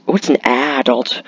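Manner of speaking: "adult" mockingly stressed as AD-ult; mocked pronunciation. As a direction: lean on the first syllable of "adult", open a. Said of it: "start pronouncing things differently like that".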